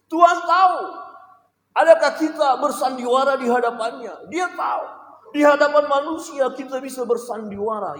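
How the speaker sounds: loud, high, impassioned warning; shouted preaching. Real, not acted. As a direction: thunder it at the congregation. (khotbah berapi-api dengan suara keras)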